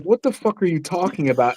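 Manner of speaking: soft, under-the-breath thought; quiet inner grumble. Retold or imitated. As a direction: say it as a private thought. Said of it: "I would think in my head".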